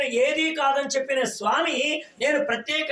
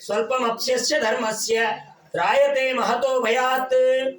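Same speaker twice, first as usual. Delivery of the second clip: slow verse recital. Real, not acted.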